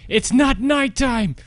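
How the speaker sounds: drawn-out whining protest; high, frantic complaint. Real, not acted. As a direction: cry out in frustration. Frustrated at last checkpoint.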